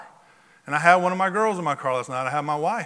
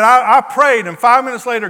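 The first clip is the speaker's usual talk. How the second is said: awed excitement; 3 semitones higher, 8 dB louder than usual. Retold or imitated. Man marvels at answered prayer.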